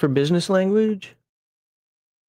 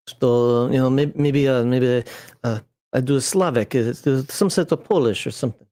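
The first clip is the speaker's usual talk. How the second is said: vague Slavic accent; 2 semitones lower than usual. Shown as a demonstration. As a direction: try a loose, Polish-ish Slavic accent. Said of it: "accent that was. It certainly wasn't Russian".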